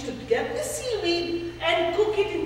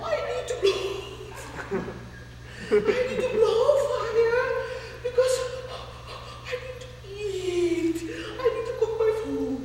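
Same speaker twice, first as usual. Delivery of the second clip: laughing beast; 5 semitones higher than usual. Acted.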